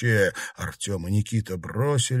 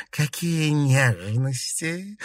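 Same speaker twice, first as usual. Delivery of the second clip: slow, higher, dripping sarcasm; sarcastic; 5 semitones higher, much slower than usual. A narrator's reading. Princess mocks the tender embrace, slow sarcastic drawl. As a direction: drawl it out mockingly. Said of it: "язвительно сказала княгиня".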